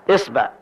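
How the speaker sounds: إصبع said with i and final a, isbaʕ; إصبع, open i start, isbaʕ; isba with kasra. Shown as a demonstration. Teacher demonstrates the kasra form of the finger word, isbaʕ. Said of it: "نأخذ كسر الهمزة".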